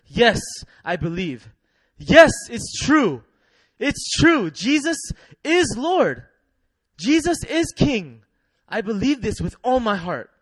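high, loud, slow declaration of faith; fervent confession. Acted. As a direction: proclaim it with all your heart. Voicing a new believer's confession.

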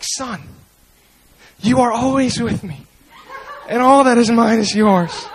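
soft, tender reply; gentle father. Retold or imitated. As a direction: answer the son gently. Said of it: "he doesn't come out like that".

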